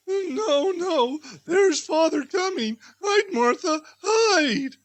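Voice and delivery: high, urgent mock alarm; quick, hide, it's a game; half-teasing warning to hide; urgent playful hush. Mother hides Martha playfully.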